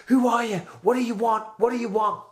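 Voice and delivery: retold frightened scream at the intruder; terrified screaming. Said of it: "and I'm screaming".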